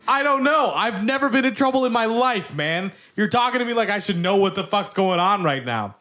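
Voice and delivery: imitating a bewildered suspect, high and pushed; retold pleading protest, starting high and easing down; agitated protest. Retelling an accused man's answer to cops, agitated protest.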